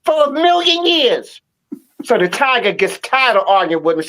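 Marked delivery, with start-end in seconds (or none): 0.0-1.4 higher, insistent donkey voice climbing as he argues; the donkey won't budge, pitch it up; stubborn donkey. Retold or imitated. Storyteller voicing the donkey insisting grass is blue, higher and insistent. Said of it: "the donkey is like".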